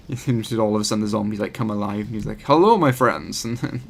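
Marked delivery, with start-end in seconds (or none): 2.4-3.4 slow, loud imitation of a Russian accent; bad Russian accent. Imitating the YouTuber greeting viewers, bad Russian accent. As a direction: play the YouTuber in a half-hearted Russian accent. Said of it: "I can't do a Russian accent".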